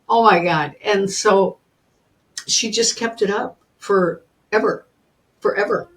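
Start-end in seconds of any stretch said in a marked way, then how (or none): none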